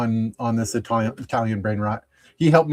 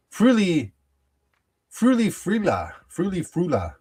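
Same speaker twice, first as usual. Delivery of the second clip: high sing-song name; 6 semitones higher than usual. Pretend. Announcing a brain rot name.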